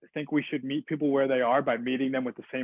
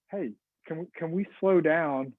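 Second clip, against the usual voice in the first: tentative and slow; 3 semitones higher than usual. Shown as a demonstration. Trainer showing staff how to calm an angry customer, tentative and slow. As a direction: ease in gently, like walking on eggshells. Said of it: "talk tentatively, to kind of slowly".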